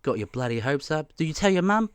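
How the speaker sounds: lightly voiced Māori auntie; a hint of OG Māori lady. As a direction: imitate her sympathetic banter, lightly. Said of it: "that's how she talks".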